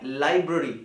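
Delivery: लाइब्रेरी with short "bruh" in the middle; correct pronunciation. Shown as a demonstration. Teacher correcting students, लाइब्रेरी with a reduced middle vowel. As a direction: say लाइब्रेरी as LIE-bruh-ree. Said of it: "क्या होता है?".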